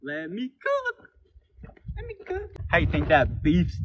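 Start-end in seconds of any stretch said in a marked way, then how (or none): 0.0-1.1 slow, soft, higher catchphrase. Pretend. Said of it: "catchphrase, softer, slow". 1.9-2.5 very soft, high whisper. Pretend. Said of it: "catchphrase, whispered high".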